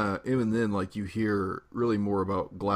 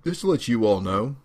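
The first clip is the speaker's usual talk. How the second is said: hammed-up shock at a betrayal; betrayed and heartbroken; 3 semitones higher than usual. Mock outrage about Dedue.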